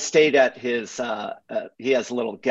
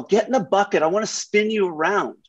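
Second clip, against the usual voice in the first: higher, breezy reassurance; mock carefree Hoff; 7 semitones higher than usual. Mimicking Hoff urging the Camry onto the dirt, breezy and higher. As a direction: wave off the danger in a higher voice.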